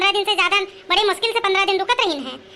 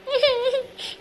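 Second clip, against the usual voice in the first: short tearful sob, higher and breaking; acted sob; 4 semitones higher, 3 dB quieter than usual. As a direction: let out a little put-on sob. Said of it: "अरे कहे रो तू". (नाटकीय सिसकी)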